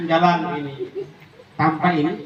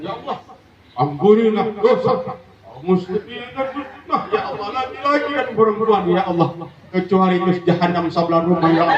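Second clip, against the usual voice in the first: mock bitter prayer. A resentful woman prays against her neighbour in mock piety. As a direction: pray sweetly while cursing. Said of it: "lantaran dah hati-hati sakit baca doa".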